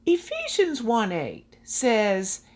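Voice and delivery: hushed, breathy-free whisper, unhurried; whispered opening. Acted. Preacher greeting dear friends in a whisper. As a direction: draw the listeners in with a slow whisper.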